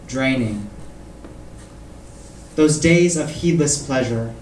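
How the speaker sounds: measured poem recital with long pauses; poetry reading. Acted. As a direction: recite in deliberate phrases, letting each line fall. Reads own poem aloud.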